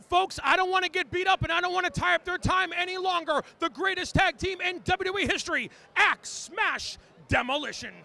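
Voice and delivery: announcer build, slowing onto the team name; ring announcer send-off. Acted. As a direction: wrap it up like a wrestling host. Send-off of guests.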